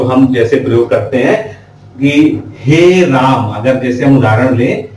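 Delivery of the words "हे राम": हे राम with the आ of राम drawn out very long, slow; stretched pluta vowel. Shown as a demonstration. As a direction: call हे राम with राम held out for three beats. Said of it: "इसमें राम को खींच के बोला जाता है".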